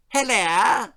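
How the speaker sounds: loud, high hearty aristocrat greeting; pompous lord hailing the neighbours; booming posh lord. A narrator's reading. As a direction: boom it like a blustering toff. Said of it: "boomed the Lord on the doorstep".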